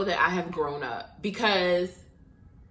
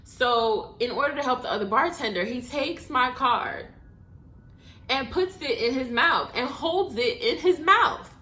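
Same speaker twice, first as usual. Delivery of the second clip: ordinary delivery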